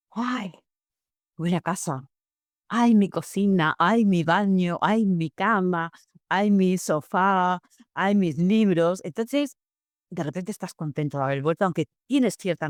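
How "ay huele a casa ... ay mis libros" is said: slow, savoring each word with a contented sigh; slow nostalgic ay before every word; fond sigh of relief. Retold or imitated. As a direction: sigh over each room like coming home after a long trip. Sighing relief on returning home.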